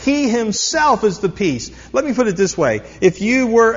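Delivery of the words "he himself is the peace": "himself" pressed firmly; stress on himself. Shown as a demonstration. Preacher to congregation, stressing "himself". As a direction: hit the word "himself". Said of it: "It's emphatic".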